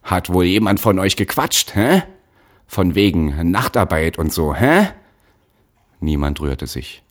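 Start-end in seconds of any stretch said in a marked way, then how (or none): 0.0-4.9 loud, high accusing shout; shouting again. Acted. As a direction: bellow the accusation at them. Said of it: "In seine alte Lautstärke zurückfallend schrie er".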